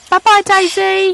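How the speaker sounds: put-on high, slow, loud baby-talk prompt; sing-song demo for a toddler. Shown as a demonstration. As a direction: model the words slowly for a small child.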